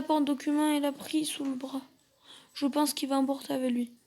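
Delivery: soft, tense whisper-like speech; hushed hiding voice. Acted. Hiding in wardrobe, intruder near.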